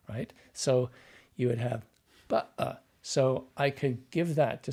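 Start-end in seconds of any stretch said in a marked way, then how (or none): 2.3-2.8 "butter" with a throat catch for the t; glottal stop. Shown as a demonstration. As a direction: say "butter" English-style, middle consonant swallowed. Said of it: "butter in that accent".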